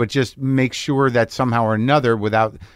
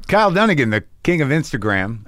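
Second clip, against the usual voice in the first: radio host voice. Pretend. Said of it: "a morning radio ender".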